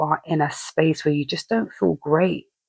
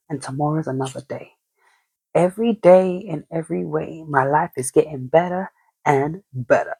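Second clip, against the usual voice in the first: calm affirmation. Shown as a demonstration. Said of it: "like that, them affirmational things".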